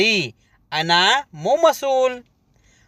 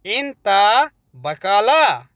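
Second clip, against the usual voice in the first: "इंता बकाला" stretched out slowly, falling on "बकाला"; slow teaching take; slower than usual. Shown as a demonstration. Teacher models the word for shopkeeper slowly. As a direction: say "इंता बकाला" slowly so they can copy it.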